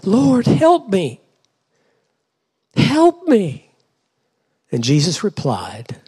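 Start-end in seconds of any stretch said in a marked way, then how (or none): 0.0-3.7 high, drawn-out begging; kneeling plea. Acted. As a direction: beg slowly from your knees, pitch soaring. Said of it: "came and knelt before him".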